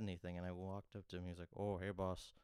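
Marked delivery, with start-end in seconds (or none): 1.6-2.3 lightly imitated comedian greeting; slightly louder, lightly mimicked friendly hello; Robin Williams. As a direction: toss out a hint of an impression. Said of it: "in that voice".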